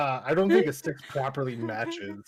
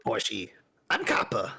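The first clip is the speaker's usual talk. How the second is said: creature; 5 semitones lower than usual. Acted. Kobold voice whispering.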